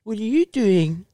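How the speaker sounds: lightly put-on baby talk; a hint of a little kid's voice. Calling a best friend as a prank, light baby voice. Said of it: "do the baby voice".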